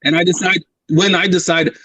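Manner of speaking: badly faked Austrian-accented strongman governor; Schwarzenegger. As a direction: boast in a mock Austrian accent. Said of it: "All right, Schwarzenegger".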